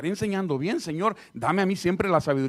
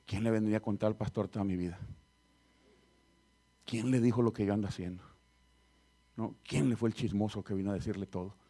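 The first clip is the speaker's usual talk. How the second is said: mock offended grumble; 8 semitones lower, 7 dB quieter than usual. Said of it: "se han enojado".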